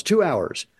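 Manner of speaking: retold yell. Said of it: "the farmer yells".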